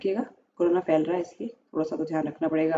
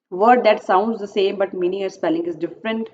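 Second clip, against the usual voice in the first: question read aloud; much slower than usual. Acted. Reads exam question slowly.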